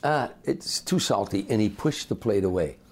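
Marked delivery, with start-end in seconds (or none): 0.0-1.5 slow complaint. Retold or imitated. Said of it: "he said".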